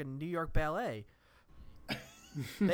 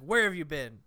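harsh demand; 3 dB louder than usual. Retold or imitated. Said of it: "he doesn't even say it in that tone".

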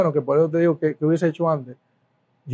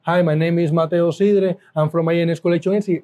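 put-on door-to-door pitch in Puerto Rican-accented English. Collector knocking on doors in Vermont, Puerto Rican accent. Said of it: "y con este acento".

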